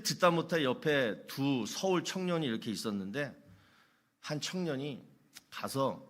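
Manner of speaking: normal talking voice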